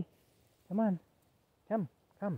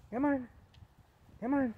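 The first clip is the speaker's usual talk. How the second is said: high calling; 10 semitones higher than usual. Real, not acted. Calling dog to come.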